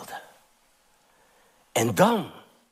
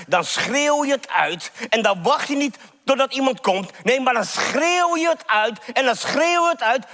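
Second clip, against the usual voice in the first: urgent, higher-pitched sermon climax; impassioned preaching; 7 semitones higher than usual. Acted. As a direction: drive each phrase home insistently.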